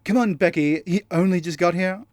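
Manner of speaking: lightly put-on posh accent; a hint of posh drawing-room voice. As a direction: go posh, gently chiding. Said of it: "He was all posh".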